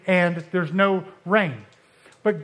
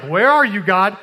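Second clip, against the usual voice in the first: louder, searching cry; calling out to God; 6 dB louder than usual. Retold or imitated. Elijah on the mountain calling out to God, raised voice. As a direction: call up into the storm for God.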